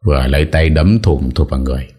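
ordinary delivery, nothing marked

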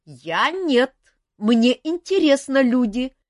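high, loud cheery rasp; a jolly phantom wheezing out; cheerful wheeze. Acted. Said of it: "жизнерадостно прохрипел фантом".

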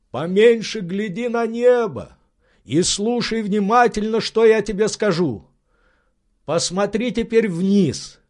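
high, tense, instructing master; Legrand's eager voice. Acted. Legrand directing his servant in the tree, high and urgent. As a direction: give orders up the tree, keyed up.

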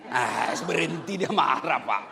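ordinary talk, nothing marked

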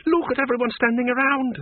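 high, exasperated snarl. Acted. Miss Flitworth scorns the onlookers at the fire, snarling. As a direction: snarl at the idle crowd. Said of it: "snarled Miss Flitworth".

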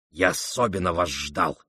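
ЖДАЛ given deliberate weight; meaningful stress on ЖДАЛ. A narrator's reading. Ippolit tells the prince he was expected, stressing ЖДАЛ. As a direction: lean meaningfully on the word ЖДАЛ. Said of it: "значительно напирая на то, что он ждал".

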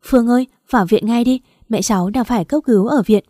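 panicked. Acted. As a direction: blurt the news in a panic. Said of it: "giọng bác ấy hốt hoảng nói".

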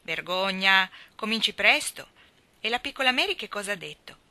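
put-on loud, jokey scolding of a little boy; mock scolding. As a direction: tease the boy with a pretend scold. Professor teases the boy.

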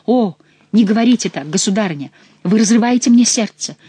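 громче, с напускным отчаянием; воскликнуть театрально, без настоящего чувства; наигранное восклицание. A narrator's reading. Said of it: "воскликнул Франсуа". (сын наигранно восклицает перед матерью)

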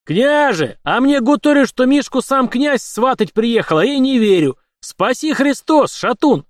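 loud, high roaring greeting; bellowing at full voice. A narrator's reading. Uncle Efim bursts in and bellows his greeting to the prince. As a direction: bellow it so the whole house hears. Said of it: "во весь голос заорав так".

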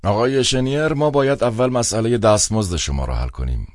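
put-on a cold old man on the phone; an old official's cold, clipped tone on the phone. A narrator's reading. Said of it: "با صدایی پیر و سرد".

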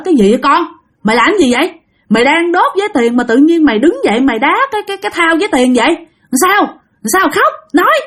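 retold father demanding an answer; urgent questioning. Cha gặng hỏi đứa con. (gặng hỏi dồn dập, giọng cao)

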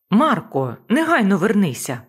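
loud, commanding call after him; shouted order. Acted. New boss shouting after deckhand Marko, loud command.

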